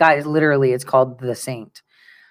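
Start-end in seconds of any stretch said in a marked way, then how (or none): 0.7-1.8 low, quiet, flat deadpan. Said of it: "I kid you not".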